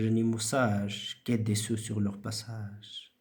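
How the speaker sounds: measured recitation, each line starting firm and falling away; teacher's model poetry recitation; rhythmic poem reading. Shown as a demonstration. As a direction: recite the verse musically, respecting the punctuation. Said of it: "une voix rythmique".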